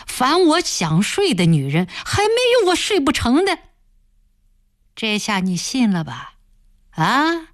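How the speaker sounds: mocking, leering boss, rising high on the jeers; taunting village boss. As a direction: sneer at her tears and rub it in. Boss taunts the crying woman. (嘲弄的村霸腔调)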